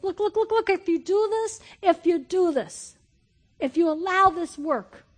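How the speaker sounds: high, loud urging cry; urgent shout. Acted. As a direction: call it out loud and pleading. Preacher acting James urging.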